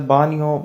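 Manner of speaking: بانیو said "BAH-nyo", no hard g; silent G. Shown as a demonstration. Teacher reads the Italian word for bathroom, silent G. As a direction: glide "ny" in بانیو, G unheard. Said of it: "بانیو میں جی silent ہے".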